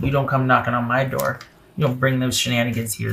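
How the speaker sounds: low, firm disapproval, scolding the absent partner; a reader turning stern and protective; getting mad. Real, not acted. Tarot reader scolding the manipulative ex, low and stern. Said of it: "I got mad".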